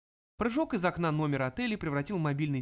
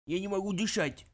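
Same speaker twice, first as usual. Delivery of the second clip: hoarse wheeze; 4 semitones higher than usual. Acted. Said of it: "прохрипел он".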